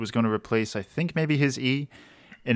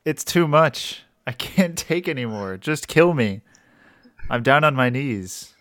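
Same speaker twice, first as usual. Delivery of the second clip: Lich voice; 3 semitones higher, 4 dB louder than usual. Acted. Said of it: "You sound like a real Lich right now".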